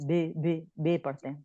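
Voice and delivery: بے said with a long e sound, like bay; wrong long e. Shown as a demonstration. Teacher showing the wrong way: بے with a long e. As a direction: demonstrate the common mistake بے with a long e. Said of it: "ہم بڑی یہ کی sound لگاتے ہیں".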